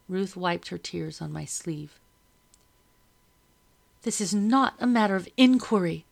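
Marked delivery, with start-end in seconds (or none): 4.0-6.0 stern. A narrator's reading. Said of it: "Madam said".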